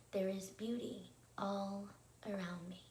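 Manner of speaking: spaced out with pauses around "all"; measured, phrase by phrase for others to join; repeat-along phrasing. Shown as a demonstration. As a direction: lead a group repetition, "There is beauty... all... around me". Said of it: "let's go ahead and repeat that together".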